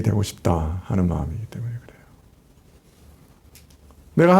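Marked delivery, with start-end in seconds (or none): 0.0-2.0 낮고 숨죽인 속삭임; 비밀을 털어놓듯 속삭이며. Real, not acted. Preacher drops voice on key point. (핵심을 힘주어 속삭이듯)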